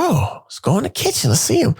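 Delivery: high, eager little push to go see; excited whisper-call to go see the roommate; eager excitement. Retold or imitated.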